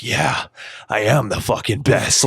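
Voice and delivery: cocky fan voice, mildly put on; imitating a smug fan. Podcaster mocks a flattered fan in the crowd, mild cocky voice. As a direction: play a fan who thinks he's the best. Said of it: "anybody's sitting in there like".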